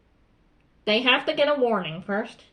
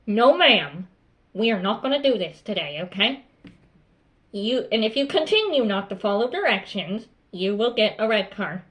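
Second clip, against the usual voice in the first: controlled, firm refusal to a pupil; firm tone demo. Shown as a demonstration. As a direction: stay calm and lay down the rule. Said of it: "firm tone of voice".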